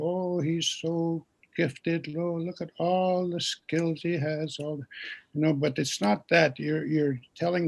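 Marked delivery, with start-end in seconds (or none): 0.0-4.6 slow, drawn-out mock admiration; mock boastful praise. Mimicking people praising someone's gifts, slow and syrupy. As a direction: sound like a fawning admirer, lightly. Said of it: "seem like you're arrogant".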